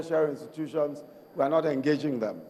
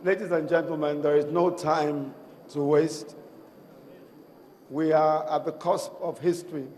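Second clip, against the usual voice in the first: hoarse voice. Real, not acted. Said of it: "I'm sorry my voice is, um, disappearing a bit".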